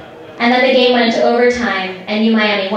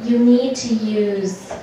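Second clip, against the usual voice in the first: slow, baffled question; halting question, as if misunderstanding; confused; much slower than usual. Retold or imitated. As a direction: draw it out, puzzled, rising on "bathroom". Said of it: "looked at us a bit confused".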